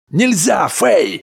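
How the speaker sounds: high, loud repeated cry; husband shouting Fay awake. A narrator's reading. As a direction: yell her name to wake her.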